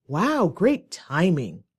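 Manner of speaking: slow, exaggerated mock praise; sarcastic. Shown as a demonstration. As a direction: draw each word out sarcastically. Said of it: "Definitely sarcastic".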